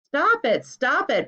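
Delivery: loud, high stop it; protesting yell. A narrator's reading. Friends covering their ears, yelling. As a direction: shout to make him stop.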